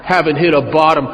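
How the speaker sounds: scoffing repeat of Woody's words, half laughing; mocking echo. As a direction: throw his words back with a laugh. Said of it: "I need positive reinforcement here".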